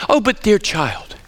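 lightly imitated British lady teacher; gentle, drawn-out hint of a British accent. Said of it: "in a British accent, she'd say".

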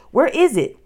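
high, loud, urgent question; frantic searching. A narrator's reading. Boy searches for the escape book, frantic question. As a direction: demand it in a panic.

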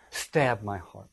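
melodramatic. Acted. Cassius offering Brutus his dagger, melodramatic. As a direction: offer yourself up with hammed-up drama. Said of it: "Very melodramatic".

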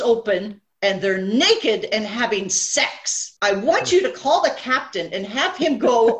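lightly acted outraged passenger; mock indignant complaint. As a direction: imitate a scandalised customer complaining.

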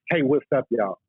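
chirpy friendly hello to disarm strangers. Retold or imitated. Diver greets passers-by in his A T voice. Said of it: "I always kinda had the voice, the A T voice".

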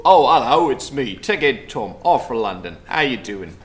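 lightly put-on odd Australian-ish accent; strange accent, supposedly Australian. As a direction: greet in a wobbly mock Australian accent. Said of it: "What a strange accent from a man".

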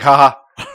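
spoken, deliberate "ha ha"; mock laugh. Telling co-host how to react to the joke, mock laugh. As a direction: fake a laugh in two separate syllables. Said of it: "You coulda just laughed".

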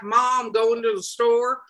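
put-on slow, lightly drawn Southern accent; a hint of Southern accent, slowly. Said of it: "I did a Southern accent for that".

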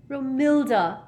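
thrilled, smitten gasp of a name; lovestruck excitement. A narrator's reading. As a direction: seize on the beloved's name. Love potion victim hears her name.

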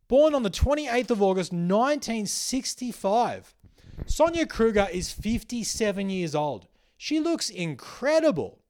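high, loud, incredulous read-out; marvelling at full volume; loud amazement. Real, not acted. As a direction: announce it like an astounding discovery. Reading out the astonishing age.

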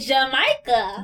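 Jamaica drawn out as juh-MY-kuh; stylized pronunciation. Retold or imitated. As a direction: stretch the MY in Jamaica. Teasing echo of his birthplace.

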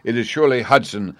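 ordinary delivery, nothing marked

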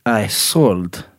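mock Russian convict; deadpan confession in a put-on Russian accent; lightly hammed-up Russian accent. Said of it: "I don't know why he's Russian".

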